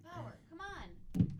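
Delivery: high, slow coaxing to dog; talking to dog. Real, not acted. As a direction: coax the dog, drawn out. Scolding the dog.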